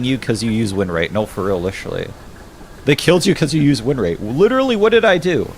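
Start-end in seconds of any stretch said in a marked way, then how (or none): 4.2-5.5 exasperated shout. Real, not acted. Baffled by TikTok penalty.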